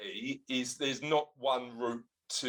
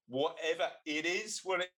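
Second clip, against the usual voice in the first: that voice; 5 semitones higher than usual. Retold or imitated. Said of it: "Why do you always do that in that voice".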